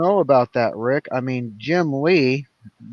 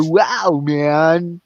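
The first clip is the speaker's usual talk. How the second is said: Keanu Reeves; 3 semitones higher, 5 dB louder than usual. Shown as a demonstration. Coaching a friend through the impression, as a mock dude. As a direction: do a quick mock Ted-style dude. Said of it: "picture Keanu Reeves in your head".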